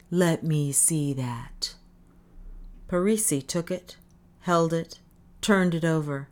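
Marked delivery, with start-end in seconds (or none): 0.1-1.7 slow wary whisper. Acted. Parisi fearful, hushed.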